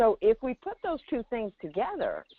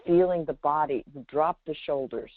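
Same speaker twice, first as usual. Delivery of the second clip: low, unhurried guiding voice, a touch lower than his chat; guided relaxation; 3 semitones lower than usual. Acted. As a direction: ease the listener into the body, one cue at a time.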